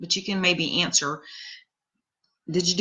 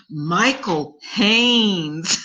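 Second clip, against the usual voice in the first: slow drawn-out name, mimicking a man who can hardly speak; imitating Simon; much slower than usual. Mimicking Simon from the saucer, slow drawn name. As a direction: stretch it out slowly like him. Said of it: "every now and again he'd go".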